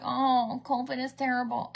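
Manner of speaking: imitated celebrity moan; mock whining. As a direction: whine it, mocking a self-pitying star. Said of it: "seems like she whines a lot".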